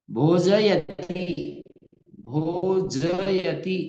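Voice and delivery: भोजयति drawn out very slowly, भो-ज-य-ति; slow careful pronunciation. Shown as a demonstration. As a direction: stretch every syllable of भोजयति. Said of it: "ऐसा नहीं बोलकर". (धीरे-धीरे पूरा उच्चारण)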